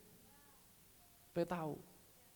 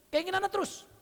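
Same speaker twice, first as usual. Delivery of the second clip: Keinginannya pitched much higher still; climbing repeat; 12 semitones higher, 3 dB louder than usual. Real, not acted. Preacher repeating his point with rising pitch. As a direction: push Keinginannya way up at the top of the voice. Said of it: "repeats phrase, climbing".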